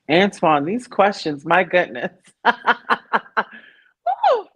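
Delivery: loud, impressed exclamation breaking into laughter; amused, emphatic protest; playfully overwhelmed. Real, not acted. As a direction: exclaim at a big question.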